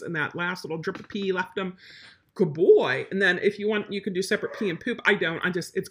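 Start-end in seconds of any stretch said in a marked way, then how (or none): 2.3-3.1 put-on lower, louder "Good boy"; marker praise. Shown as a demonstration. Trainer marking the dog's finished pee with praise. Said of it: "he finishes".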